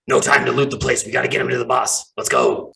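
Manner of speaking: scratchy bird-person henchman, dropping low at the end. Acted. Game master voices a bristling bird person ordering the gang, scratchy. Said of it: "a deeper sort of, like, scratchy voice".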